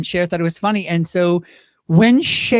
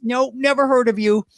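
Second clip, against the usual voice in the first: cantankerous Cher; 5 semitones higher than usual. Acted. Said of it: "she was cantankerous".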